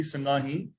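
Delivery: ਸੰਗਾਹੀ opening on "sang"; ਸੰਗਾਹੀ with "ng" before the "gaa"; nasal first syllable. Shown as a demonstration. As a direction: sound the nasal after "sa" in ਸੰਗਾਹੀ. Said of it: "ਸੱਸੇ ਤੇ ਟਿੱਪੀ".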